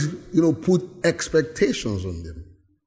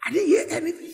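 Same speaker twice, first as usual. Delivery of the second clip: imitating a deafened listener; 11 semitones higher, 5 dB quieter, faster than usual.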